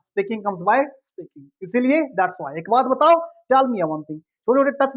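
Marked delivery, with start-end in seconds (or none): 0.0-1.5 slow and deliberate; slow model sentence. Shown as a demonstration. Teacher slowly repeating the proverb for the class. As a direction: stretch each word for learners. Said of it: "बोलने से बोलना आएगा".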